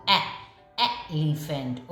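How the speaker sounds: ए then एलिफेंट with a short e; short e sound. Shown as a demonstration. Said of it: "short sound बोलेगा".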